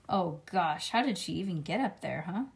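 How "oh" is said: usual speaking voice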